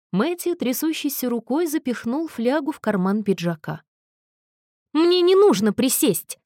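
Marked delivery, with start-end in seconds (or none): 4.9-6.4 резко и громче, с нажимом на «нужно»; рявкни, отказываясь сесть; рявкнул. A narrator's reading. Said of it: "рявкнул он". (рявкнул Томасу в ответ)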